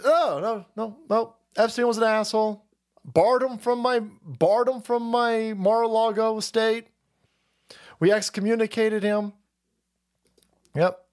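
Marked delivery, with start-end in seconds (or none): 0.0-9.3 Donald Trump. Acted. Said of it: "that Donald Trump could just".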